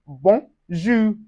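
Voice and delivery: "bonjour" slowly as bon, zhoo; nasal ON. Shown as a demonstration. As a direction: split "bonjour", nasal vowel in the first syllable. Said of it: "it gives us un".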